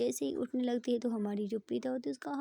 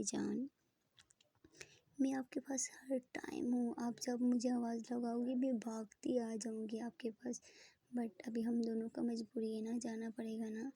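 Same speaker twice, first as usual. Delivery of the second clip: tender whisper. Acted. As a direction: whisper comfort close to her. Tender reassurance to lover.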